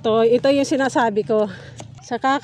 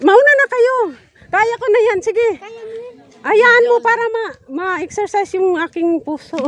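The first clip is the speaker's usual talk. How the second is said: loud breathless call; 10 semitones higher, 5 dB louder than usual. Real, not acted. Climbing, calling to others.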